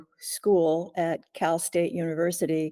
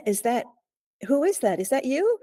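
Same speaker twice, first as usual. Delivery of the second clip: retold yell; 7 semitones higher than usual. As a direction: call out to a stranger in the hall, alarmed. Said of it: "I yelled out".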